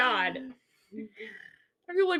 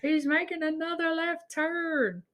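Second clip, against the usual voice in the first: Jeff Dunham joke; 7 semitones higher, 5 dB quieter, slower than usual. Retold or imitated. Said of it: "Jeff Dunham does the joke of".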